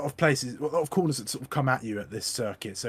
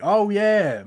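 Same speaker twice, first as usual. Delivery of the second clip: a high, loud "oh yeah" as it clicks; the penny drops, out loud; sudden realization; 9 semitones higher, 10 dB louder than usual. Real, not acted. Realizing the Aussie mix-up.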